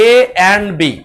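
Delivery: A and বি read with and, not গুণ. Shown as a demonstration. A teacher showing students how to read এ and বি aloud. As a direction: spell out এ and বি, saying the word and. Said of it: "আর আপনাকে উচ্চারণ করতে হবে".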